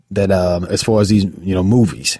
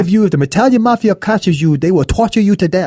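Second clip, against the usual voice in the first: high, raised urgent warning; urgent gang leader; 8 semitones higher than usual. Retold or imitated. Gang leader warning his crew about torture, urgent and high. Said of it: "he handing out the little pills".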